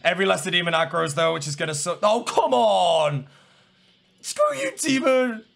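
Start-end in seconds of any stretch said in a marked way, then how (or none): 2.0-5.4 high, exasperated cry; drawn-out, aggravated whine; frustrated outburst. Real, not acted. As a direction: protest at the game, pitch jumping up. Frustrated by demon attacking him in game.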